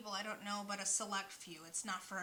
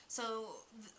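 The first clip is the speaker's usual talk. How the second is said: catching on the first sound; stuttering. Real, not acted. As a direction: trip over the start, halting. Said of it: "sorry that I'm stuttering".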